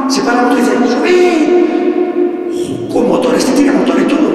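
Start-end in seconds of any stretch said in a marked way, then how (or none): 0.9-2.9 a high, sudden call to get in. Acted. Motorboat driver ordering them aboard, high and sudden. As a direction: bark it high from the boat.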